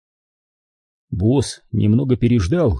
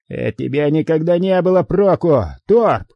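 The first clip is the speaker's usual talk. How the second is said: higher-pitched angry rebuke, narrated; angry hiss; 6 semitones higher than usual. A narrator's reading. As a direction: read it as a venomous reproach, pitched up. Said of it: "прошипел Харрисон". (злое шипение)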